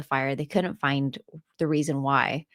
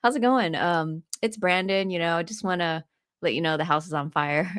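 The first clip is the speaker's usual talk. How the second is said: imitating an unbothered caller; calm, casual. Tenant phoning landlord about a fire, calm and casual. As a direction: deliver alarming news like small talk. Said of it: "he said it so calmly".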